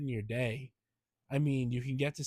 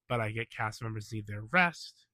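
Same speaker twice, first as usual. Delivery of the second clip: blocked nose from a cold; stuffy nose; 3 semitones lower than usual. Real, not acted. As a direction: talk through a stuffed-up nose. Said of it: "sorry if I sound a little stuffier".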